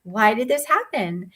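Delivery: high, startled gasp of disbelief; shocked. Retold or imitated. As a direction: squeak it out in retold shock. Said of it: "but I was shocked".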